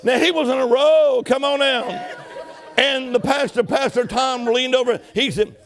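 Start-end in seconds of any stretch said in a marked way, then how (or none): 0.0-1.8 laughing. Real, not acted. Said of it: "laughing through story".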